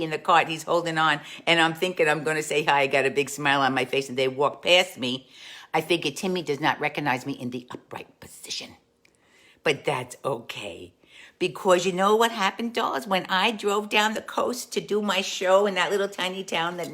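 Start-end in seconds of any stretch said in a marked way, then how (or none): 5.7-10.9 breathy whispered aside. Real, not acted. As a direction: lean in and whisper it wryly.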